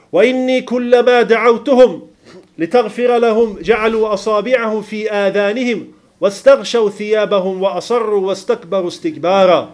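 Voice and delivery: slow, measured chanting of the Arabic verse; Quran recitation. Acted.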